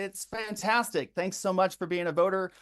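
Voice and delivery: enthusiastic. Shown as a demonstration. Volunteer thanking a Kamala Harris supporter, enthusiastic. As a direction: thank them like a keen phone volunteer. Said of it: "we're gonna be really enthusiastic".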